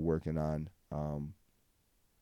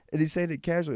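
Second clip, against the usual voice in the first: amazed; 11 semitones higher, 6 dB louder, faster than usual. Real, not acted. Amazed at friend's plan.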